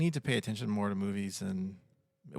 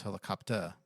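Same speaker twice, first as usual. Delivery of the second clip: British "helicopter" ending in an open tuh; British accent; 4 dB quieter than usual. Retold or imitated. Quoting the British guy on helicopter, British dropped R. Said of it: "the British guy who was doing this".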